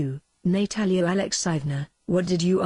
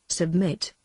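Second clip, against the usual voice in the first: slow. Acted. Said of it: "repeated Natalia slowly".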